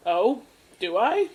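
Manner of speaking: slow mock-curious question, lilting up; feigned innocence. Podcaster baiting a phone scammer, feigned innocence. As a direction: play innocent with a drawn-out question.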